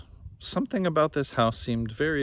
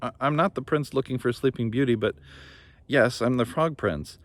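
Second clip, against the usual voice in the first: flustered prince; 3 semitones higher than usual. Acted. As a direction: trip over the words nervously.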